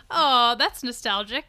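pleased oh. Retold or imitated. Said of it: "my face was like".

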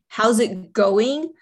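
slow, drawn-out and pitched high, rising in disbelief; half-held-back frustration, echoing their cheery words; mock exasperated yell. Read to mothers, a worn-out mother's mock fed-up retort. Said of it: "you want to yell and say".

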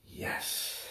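whispered yes; whispering. Real, not acted. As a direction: breathe it out. Final hushed yes.

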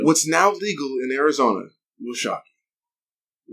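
slow dramatic teaser read; clickbait video narrator. Pretend.

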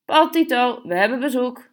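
high, loud call across the house. A narrator's reading. Mother calls her sons to announce the suitor, loud call. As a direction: sing it out to the boys. Mother calling boys again.

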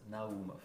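Naumov as na-OO-mov, stressing the middle; emphasis on second syllable. Shown as a demonstration. Guest correcting the host on his surname, Naumov stressed on second syllable. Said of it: "with emphasis on the second".

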